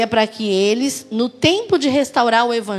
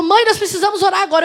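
higher, quick retold urgency; urgent plea; 7 semitones higher, 3 dB louder, faster than usual. Son urging his mother to pray, imitated urgency. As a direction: lightly imitate an urgent, insistent request.

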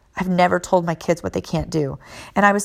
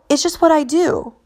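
put-on little boy voice; 8 semitones higher than usual. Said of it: "he's like".

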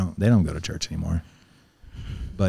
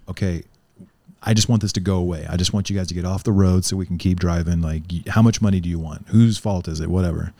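impatient police; 4 dB louder than usual. Retold or imitated. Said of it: "the police here ... is".

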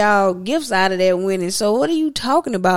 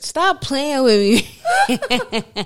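very slow and higher through laughter; laughing protest; 5 semitones higher, much slower than usual. Real, not acted. Protesting her partner's teasing, slow and laughing. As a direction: stretch it out, laughing.

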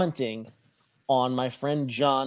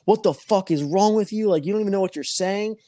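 raised, fast mock yell at the girlfriend; retold phone yelling; 4 semitones higher, 3 dB louder than usual. Friend yelling down the phone at his girlfriend, mock yell. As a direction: yell the line a bit higher and louder, rushing the end. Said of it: "he's fucking screaming at her on the phone".

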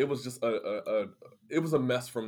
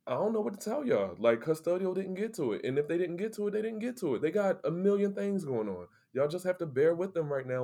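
pitched up high, fast and heated; incredulous high-pitched pushback; exasperated retort; 7 semitones higher than usual. Retold or imitated. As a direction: throw your hands up at them. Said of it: "I was like".

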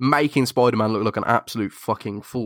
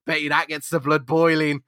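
scheming son; 5 semitones higher than usual. Retold or imitated. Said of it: "He's just like".

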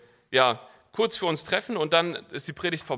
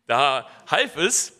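slow restart; 8 dB louder, much slower than usual. Real, not acted. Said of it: "so, jetzt habe ich's wieder".

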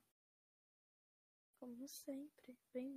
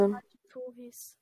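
loud; 14 dB louder than usual. Real, not acted. Interrupting to suggest topic.

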